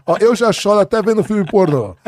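joking outburst. Real, not acted. Dad jokes about his own crying, joking outburst. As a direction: blurt it out loudly for a laugh. Joking confession amid laughter.

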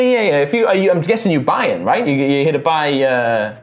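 high, incredulous halfling; halfling guide. Acted. Halfling says family heads aren't here, high incredulous voice. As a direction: scoff it in a high, halting voice.

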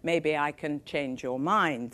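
put-on slow, lightly French-accented; a hint of a French accent, coaxing. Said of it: "in wonderful French accent".

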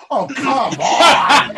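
loud, laughing protest; laughing outburst. Real, not acted. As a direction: throw it out mid-laugh.

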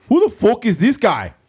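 high, loud mock Irish snarl; hammed-up Irish accent; mock Irish Conor. Conor dismissing Floyd in an Irish accent. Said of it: "Conor is an accent".

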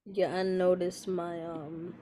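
distant voice from the mic; far from mic. Real, not acted. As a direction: still a bit off-mic. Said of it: "you sound, like, mad far away right now".

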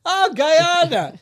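slow, high "oh" of hammed-up discovery; mock surprise. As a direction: act as if it's a revelation, drawn out.

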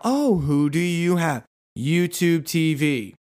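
slow, slightly high back-and-forth; lightly voiced exchange. Shopper and saleswoman trading lines, slow and lightly voiced. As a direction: play both sides lightly. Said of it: "I'm set up somewhere else".

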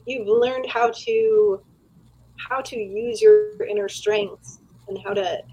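choppy, dropping-out connection; halting speech over a bad line; buffering stutter. Real, not acted. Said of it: "you cut out for a bit".

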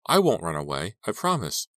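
earnest, tense bargaining; forced steadiness. Acted. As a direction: hold fear back and promise. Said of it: "forcing her voice not to tremble".

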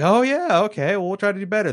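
sarcastic impression of a careless producer; mocking the producers. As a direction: parrot their hollow promise mockingly.

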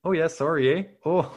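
put-on light, polite Canadian accent; friendly mock-Canadian. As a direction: apologize like a cartoon Canadian. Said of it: "I'd like a Canadian one".

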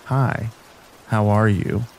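understated creepy come-on, slightly hushed; lightly voiced creepy stranger. A narrator's reading. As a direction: say it like a creep leaning in close. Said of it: "in the creepiest tone goes".

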